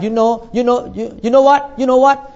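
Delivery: teasing you know what; mock a habitual you-know-what speaker; imitating filler habit. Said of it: "some people like".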